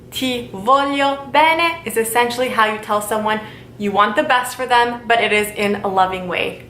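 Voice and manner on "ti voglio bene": Ti voglio bene said slowly, rising on bene; slow Italian model. Shown as a demonstration. Teacher slowly modelling the phrase for students. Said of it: "that would be".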